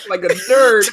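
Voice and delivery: nasal nerdy voice, lightly done; nerd voice. Acted. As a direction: say it like a dorky nerd. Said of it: "Why did you say it like a nerd?".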